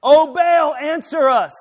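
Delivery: loud, high cry to a god; shouting plea. Acted. Prophets calling on Baal for an answer, shouting. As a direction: call out loudly, pitched well up.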